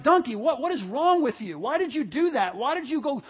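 acted, worked-up rant at a donkey; ticked-off Balaam. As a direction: chew out the donkey in frustration. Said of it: "He's ticked".

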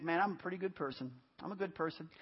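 low, soft aside as an imagined listener; self-assured inner thought. Retold or imitated. Preacher imitating a churchgoer's private thought, quietly self-assured. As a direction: think it quietly to yourself, mock complacent.

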